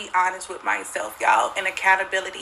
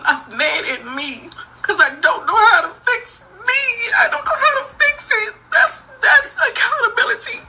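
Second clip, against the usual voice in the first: crying out in real anguish; sobbing shout; 14 semitones higher, 3 dB louder than usual. Real, not acted. Woman admitting her faults to viewers, sobbing. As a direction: voice cracking very high through sobs.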